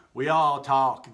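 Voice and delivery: slow, loud and stiff; plodding wooden delivery; woodenly. Acted. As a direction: say it like a wooden bat. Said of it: "the bats added woodenly".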